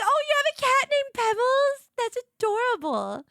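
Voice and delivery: high, loud squealing delight; excited gushing. Retold or imitated. Streamer gushing to chat about a cat. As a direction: gush over the cat name. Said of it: "I was like".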